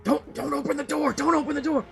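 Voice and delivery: high, stammering panic; panicked. Acted. Villager panics over opening the door, frightened. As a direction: torn and frantic behind the door. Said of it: "so he says".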